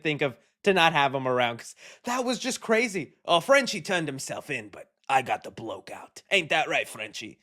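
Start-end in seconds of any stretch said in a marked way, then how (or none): 3.3-7.4 loosely voiced Cockney accent, quoting a character; a hint of a London Cockney accent. Quoting Butcher about Frenchie.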